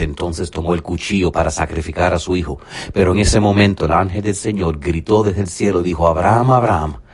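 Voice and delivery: lively dramatic Bible reading, voices lightly acted; preacher reading Genesis aloud; scripture reading. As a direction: read the story of Abraham with rising fervour.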